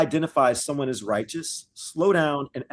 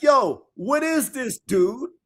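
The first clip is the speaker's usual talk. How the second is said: Ezra freaking out; 8 semitones higher, 3 dB louder, slower than usual. Retold or imitated. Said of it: "He's like".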